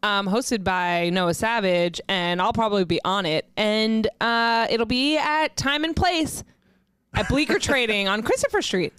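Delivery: slow, drawn-out hype announcement; wrestling promo. Pretend. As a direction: sell the show like a wrestler. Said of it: "can you cut a quick promo".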